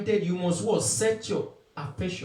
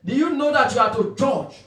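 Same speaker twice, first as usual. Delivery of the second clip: raised, insistent preacher's voice; emphatic preaching; 5 semitones higher, 5 dB louder than usual. Real, not acted. Preacher challenging believers on what they know, emphatic preaching. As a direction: press the questions on the congregation.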